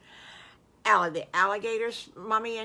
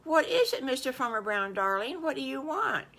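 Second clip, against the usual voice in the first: Missus Farmer Brown; 6 semitones higher than usual. Acted. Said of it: "and she says".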